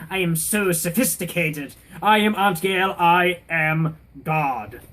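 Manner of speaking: grandiose self-important impression, slowing on the last words; mock a pompous psychologist, ending slow and drawn out; Aunt Gail. Mocking the aunt who thinks she knows people, grandiose. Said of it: "That's her".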